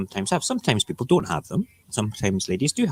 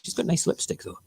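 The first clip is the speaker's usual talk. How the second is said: whispered aside; 8 semitones higher, 6 dB quieter than usual. Real, not acted. Aside about photo.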